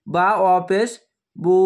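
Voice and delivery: "বু" held for one alif; long u held. Shown as a demonstration. Teacher showing students how "বু" is stretched into a long oo. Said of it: "এইভাবে উচ্চারণ হবে".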